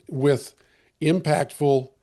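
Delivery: hoarse, voice giving out; strained, fading hoarse voice; losing voice. Real, not acted. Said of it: "I think I'm losing my voice".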